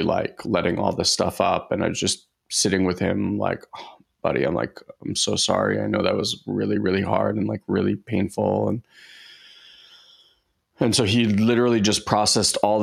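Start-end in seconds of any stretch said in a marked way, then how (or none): 3.8-8.7 a gentle murmured oh buddy, then easing back toward normal; tender comfort. Retold or imitated. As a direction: hush it like holding a crying kid. Comforting his crying son in car.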